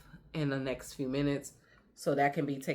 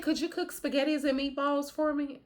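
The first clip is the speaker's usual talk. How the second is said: put-on little girl voice; 11 semitones higher than usual. Grandma voices the granddaughter.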